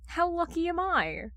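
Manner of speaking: high, teasing lazy question. Acted. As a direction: tease him, voice still drowsy. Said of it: "His voice is hoarse and lazy".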